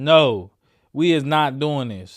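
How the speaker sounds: ordinary talk, nothing marked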